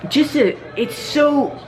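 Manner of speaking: high, fast, breathless enthusiasm; excited gushing. Retold or imitated. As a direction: gush like an engine nerd. Mechanic gushing about engine problems.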